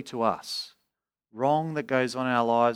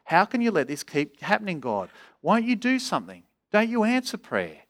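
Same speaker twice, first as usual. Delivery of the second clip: Habakkuk's plea; 4 semitones higher than usual. Acted. Preacher voices the prophet asking God to act, pleading. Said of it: "Habakkuk is saying".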